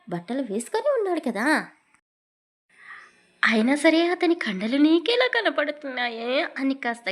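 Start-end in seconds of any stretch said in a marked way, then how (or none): 3.4-6.3 raised, louder retort; asked quite loudly. A narrator's reading. Satya scolding her gushing friend, raised voice. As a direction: snap back at her friend, a bit loud. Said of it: "గట్టిగానే అడిగింది".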